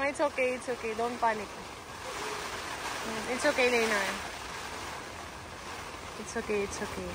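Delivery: soft, falling reassurance; calm them down quietly during the storm; reassuring. Real, not acted. Calming family in the storm.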